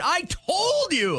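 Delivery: high slow mock I-told-you; mocking parent. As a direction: whine it like a smug parent. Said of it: "your parents' first reaction".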